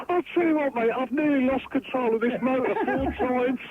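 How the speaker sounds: words breaking into laughter; laughing while talking. Real, not acted. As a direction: talk through real giggles. Caller laughing while driving.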